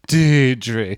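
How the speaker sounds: "Deidre" as DEE-dree; long EE at the start of "Deidre"; corrected pronunciation. Shown as a demonstration. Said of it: "Yeah, that's right".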